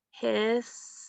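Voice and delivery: "Historic" broken into his, tor, ic with clear gaps; syllable by syllable. Shown as a demonstration. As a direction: pause after each syllable of "Historic". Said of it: "So let's try it out".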